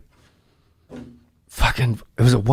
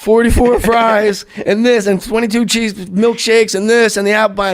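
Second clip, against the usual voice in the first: Farley ordering; 6 semitones higher than usual. Retold or imitated. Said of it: "he's like".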